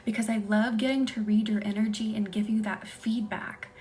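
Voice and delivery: hushed, breathy bedtime whisper-talk. Real, not acted. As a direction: lull the viewers toward sleep. ASMR live, soft whispery talk.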